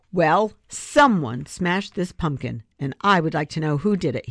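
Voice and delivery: mean business, lay down the law; stern, slow. Acted. Angry grandpa demands to know who smashed the pumpkin, slow and stern. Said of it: "in a voice that meant business".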